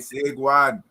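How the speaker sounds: "Seguan" with an attempted cultural accent. Shown as a demonstration. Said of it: "I tried to put the accent on it".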